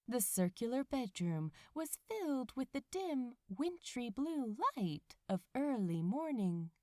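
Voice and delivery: a lightly read bedtime-story voice; story narration. A narrator's reading. Reader telling listeners a cozy morning tale, story narration. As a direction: tell it gently, like a cozy fairy tale. Reads the fic aloud.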